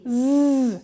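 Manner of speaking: a long buzzing zzz; letter sound. Shown as a demonstration. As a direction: hold the voiced Z as a pure sound, "zzz". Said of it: "which says".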